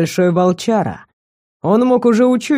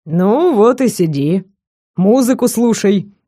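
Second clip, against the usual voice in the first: smirking. Acted. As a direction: dismiss her with a smirk. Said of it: "усмехнулся он".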